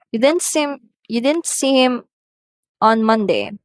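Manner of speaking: rising check question. Shown as a demonstration. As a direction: ask it with a lift. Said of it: "example here for hesitation or reluctance".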